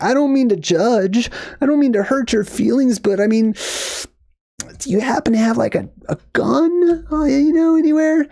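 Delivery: hammed-up fearful question, whispering the dangerous word; scared timid ask. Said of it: "that's exactly how this would have gone down".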